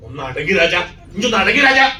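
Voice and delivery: rising to a loud, high shout of രാജാ; father at the fair shouting down his crying boy, building to a yell; exasperated call. Retold or imitated. Father scolding his crying son.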